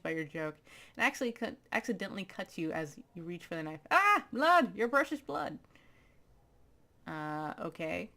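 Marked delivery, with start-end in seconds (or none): 3.9-5.6 mock panic. Mock panic over a cut.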